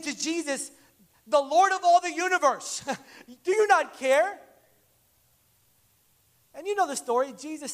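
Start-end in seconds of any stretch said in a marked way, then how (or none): 1.3-4.4 offended plea. Retold or imitated. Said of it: "you can see the offense in their heart".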